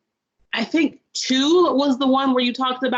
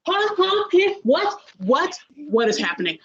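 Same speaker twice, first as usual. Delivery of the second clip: stammering huhs jumping way higher, then trailing down; flabbergasted; 5 semitones higher than usual. Retold or imitated. Viewer reacting to a sudden on-screen death, sputtering in shock. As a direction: sputter in total disbelief. Shocked by suicide scene twist.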